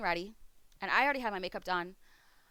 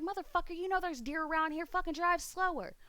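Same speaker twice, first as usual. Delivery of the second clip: livid rant at dad; 8 semitones higher than usual. Retold or imitated. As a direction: scold dad over the dented car. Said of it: "how I'm fucking livid".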